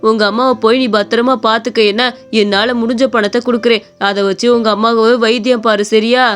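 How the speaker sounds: lightly voiced gentle old man; kind old shopkeeper. Shopkeeper promises money for the boy's sick mother, gentle old man. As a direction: soothe the worried boy.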